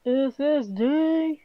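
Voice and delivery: S S D said slowly, letter by letter; slow spelling out. Shown as a demonstration. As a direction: spell out S S D deliberately. Repeats the acronym slowly.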